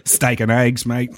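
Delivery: lightly put-on Australian accent; a hint of Australian, played for laughs. Shown as a demonstration. Host admits he can't do accents, mild Australian. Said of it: "I can't do an Australian accent, so I try".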